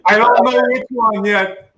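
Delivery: high, loud laugh-through words; giggling apology. Real, not acted. Guest joking about which girl, laughing hard.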